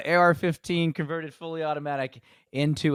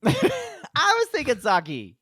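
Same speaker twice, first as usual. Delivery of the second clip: laughing; 13 semitones higher, 4 dB louder, much slower than usual. Real, not acted. Laughing, high and drawn out.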